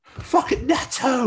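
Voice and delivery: high, drawn-out exclamation of recognition; excited outburst. Real, not acted. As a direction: blurt it out in amazed recognition, stretching it. Astonished outburst at remembered shop name.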